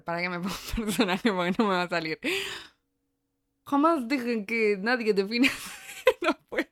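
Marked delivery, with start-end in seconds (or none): 3.6-5.5 a failed French accent that breaks into laughter; attempted French accent. Shown as a demonstration. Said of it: "con tonada". 5.5-6.7 high burst of laughter, can't go on; laughing. Real, not acted. Breaks up during accent attempt.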